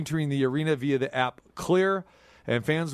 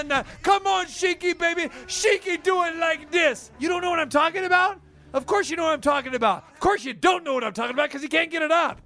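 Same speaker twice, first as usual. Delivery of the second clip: wrestling promo; 7 semitones higher than usual. Pretend.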